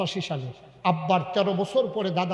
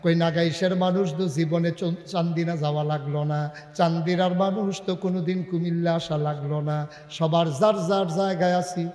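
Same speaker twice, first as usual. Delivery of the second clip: melodic preaching. Real, not acted. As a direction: chant the sermon to the crowd. Melodic sermon delivery.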